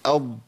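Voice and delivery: dad held in the mouth with its hum; sustained dad sound. Shown as a demonstration. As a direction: say أض with the tongue edge pressed to the molars. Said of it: "ويا ريت تقولوا ورايا".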